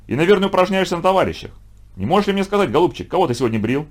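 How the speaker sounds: high-pitched, needling questions; sly mockery. A narrator's reading. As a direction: feign politeness while cornering the pupil. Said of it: "ехидно улыбнулся Пифагор". (ехидный допрос)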